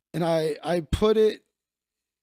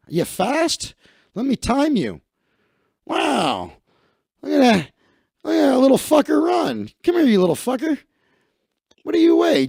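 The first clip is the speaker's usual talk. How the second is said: loud, higher, excited coach voice; gruff football coach; 9 semitones higher, 3 dB louder than usual. Acted. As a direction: bark like an impressed coach. Football coach sizing up recruit.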